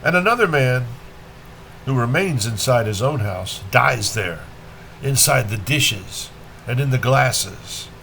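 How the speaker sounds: measured poem reading with pauses between lines; poetry reading. A narrator's reading. Reader shares Rilke's Sunset with listeners, measured poetry reading. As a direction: let each phrase stand, then fall away.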